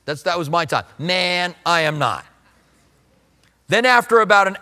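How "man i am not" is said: laid-back seventies "man", drawn out a little; seventies slang. Acted. Preacher joking that Peter talks like his era, lightly voiced seventies slang. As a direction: lightly play it like a seventies guy. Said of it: "here he sounds like the seventies".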